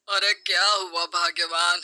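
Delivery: lightly voiced husband, amused; teasing husband. Husband teasing his upset wife, amused. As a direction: tease his wife gently.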